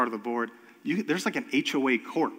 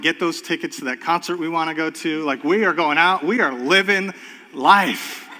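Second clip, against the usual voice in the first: louder, building joyful exclamation; elated celebration; 4 dB louder than usual. Retold or imitated. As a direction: celebrate like the weight just lifted. Debt forgiven, celebrating.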